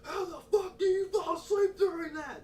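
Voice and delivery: high, loud whiny mimicry; mock outraged kid. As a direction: squeal it like an indignant kid. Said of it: "looked up at him and said".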